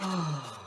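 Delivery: long breathy sigh. Real, not acted. Reader pausing over the message, sighing. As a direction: let out a slow sigh.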